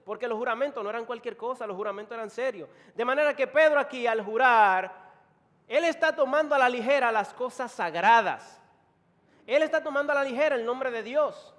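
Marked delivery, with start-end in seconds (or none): 3.0-11.5 loud, high-pitched sermon emphasis; raised, emphatic preacher; preaching at full force. Real, not acted. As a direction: drive the accusation home to the congregation.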